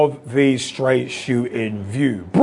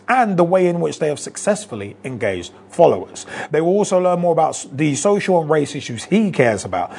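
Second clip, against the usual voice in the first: news read. Acted. Reads Guardian article aloud.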